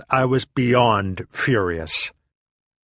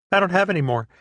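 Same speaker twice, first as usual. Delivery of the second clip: much higher, cutesy teasing tone; cute grinning; 8 semitones higher, much faster than usual. Retold or imitated. Comedian teases him about the pot, high cute mock voice. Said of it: "grinning, all cute".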